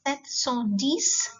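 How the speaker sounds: "Sept cent dix" said slowly, rising on dix; teacher dictating slowly; slow French number. Shown as a demonstration. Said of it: "seven hundred and ten".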